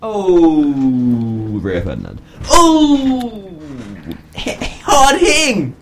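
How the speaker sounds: hammed-up Italian accent, drawn out; mock Italian accent, high and slow. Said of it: "you do a racist Italian accent".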